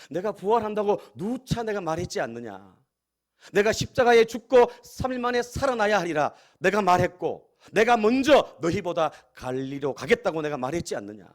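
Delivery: mildly acted reproach, rising in force midway; a preacher voicing a frustrated teacher scolding disciples; exasperated rebuke. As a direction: plead with a touch of exasperation, insistent in the middle. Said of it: "안타까워하면서 그들의 완악함을 꾸짖으시고".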